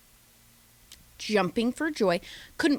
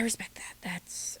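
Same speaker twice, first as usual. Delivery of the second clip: under-breath aside; 12 dB quieter than usual. Real, not acted.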